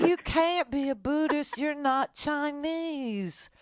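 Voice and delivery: mock stern parent. Host playing a parent scolding, slow mock stern lecture. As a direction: drag out a parent's disapproval.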